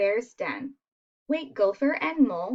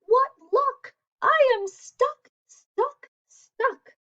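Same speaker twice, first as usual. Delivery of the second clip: high, loud mock wail; wailing bear; 13 semitones higher, 4 dB louder, slower than usual. Bear stuck in his own door, high wail. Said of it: "Bear wails".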